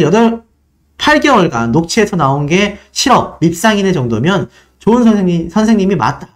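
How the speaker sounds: plain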